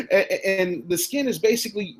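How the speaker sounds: high laugh spilling into the words. Real, not acted. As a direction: laugh through it. Laughs at own joke.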